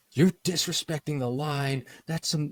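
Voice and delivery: high, slow indignant stranger; slow mock scolding. Italian guy scolding tourist about the line, slow and high. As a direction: drag it out like a lecture on queue manners.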